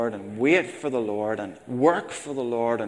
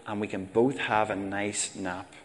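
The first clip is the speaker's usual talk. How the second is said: strained patience at the checkout; patient mother. Retold or imitated. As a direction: keep it sweet through gritted teeth. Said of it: "The mother said patiently".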